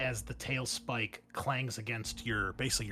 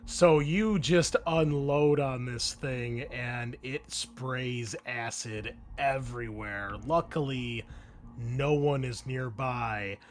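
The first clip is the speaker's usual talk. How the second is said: slow, drawn-out action narration; measured tabletop storytelling; game master scene-setting; 3 dB louder, slower than usual. Acted. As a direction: set the scene deliberately, lingering on key words.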